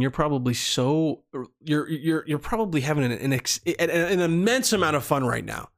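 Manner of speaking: stuttering and restarting. Real, not acted. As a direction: trip over the words, stutter. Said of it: "I was stuttering really, really hard".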